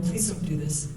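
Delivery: soft, subdued plea; quietly beg, as if already defeated; retold pleading. Retold plea to case manager.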